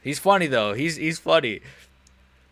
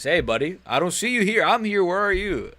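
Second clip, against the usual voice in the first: raised, louder comeback; mock indignation; 6 semitones higher, 5 dB louder than usual. Real, not acted. Streamer answers a chat commenter, mock indignant. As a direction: call him out, higher and louder.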